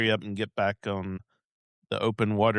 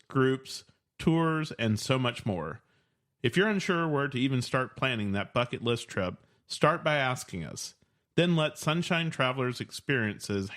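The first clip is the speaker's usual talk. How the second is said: upbeat sponsor read, steady and polished; reading the sponsor ad to listeners, upbeat. Acted. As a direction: sell it like a radio spot. Host reads sponsor ad.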